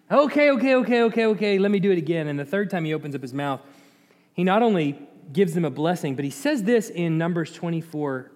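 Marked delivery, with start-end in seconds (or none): 0.1-2.3 rattled-off okays, high then settling; hurriedly calm an angry boss; mock placating. Balaam placates king second time.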